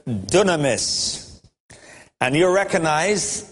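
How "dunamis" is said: dunamis said slowly as DOO-na-mis; Greek word. Shown as a demonstration. Preacher introduces the Greek word, slow careful dunamis. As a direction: dunamis drawn out syllable by syllable, stress on the first. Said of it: "the word Jesus used here is the word".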